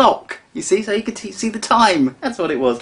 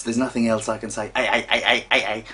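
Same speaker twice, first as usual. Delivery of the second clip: lightly voiced dim cockney, fast; a quick mock cockney, a touch dopey; 3 semitones lower, faster than usual. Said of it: "like some sort of moronic sort of cockney".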